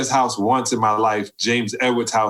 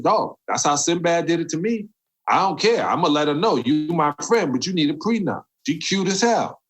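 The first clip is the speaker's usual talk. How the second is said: higher-pitched retold protest; defiant comeback; 6 semitones higher than usual. Teasing his friend about a prenup, defiant comeback. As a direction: tease a friend, unapologetic and animated.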